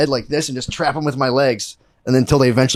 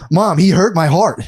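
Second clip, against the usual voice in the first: higher, slow, wounded child imitation; hurt little kid; 4 semitones higher, slower than usual. Cousin's kid telling Mom, hurt and pleading.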